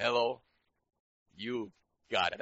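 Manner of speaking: shouted "Hello?" to wake the room; loud preacher hello; loud call-out. Real, not acted. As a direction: call out to the congregation. Preacher calling to congregation.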